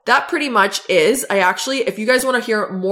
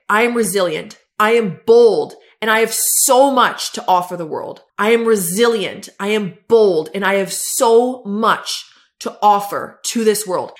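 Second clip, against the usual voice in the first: emphatic affirmation; 3 dB louder than usual. Shown as a demonstration. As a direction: punch each key word with conviction. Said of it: "So I will literally say".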